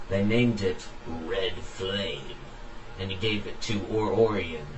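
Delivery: measured storyteller reading aloud; story narration. A narrator's reading. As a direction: narrate an adventure tale. Reads own story aloud.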